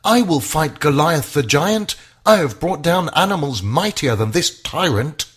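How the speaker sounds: put-on a young shepherd boldly volunteering; brave cry. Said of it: "David cried".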